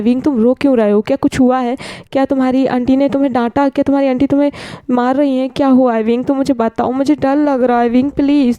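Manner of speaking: a lightly voiced, anxious friend pleading on the phone; worried friend. Friend on the phone begs crying Wing to explain, mildly anxious.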